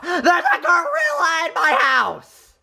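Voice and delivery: half-laughed, mock-scared report; laughing while retelling the scare. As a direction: giggle through the warning.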